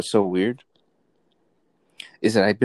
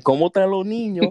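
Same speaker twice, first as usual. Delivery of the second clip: high-pitched mocking Spanish impression; goofy, high mock greeting; mock stupid guy; 11 semitones higher, 4 dB louder than usual. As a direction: imitate him asking in a silly high voice. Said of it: "sounds like a stupid guy".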